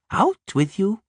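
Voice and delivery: rough, hearty dwarf voice; gruff dwarf. A narrator's reading. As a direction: own it, ashamed but brave. Zoltan voiced.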